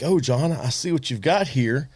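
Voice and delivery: a hint of a naive bourbon newbie. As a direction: play the wide-eyed rookie showing off. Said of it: "That's exactly how I said it".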